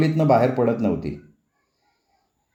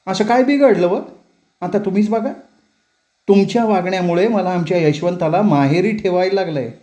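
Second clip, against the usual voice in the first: higher, heated arguing; quarrelling daughter-in-law; 5 semitones higher than usual. Acted. Daughter-in-law argues back at mother-in-law, heated. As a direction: throw it back in her face.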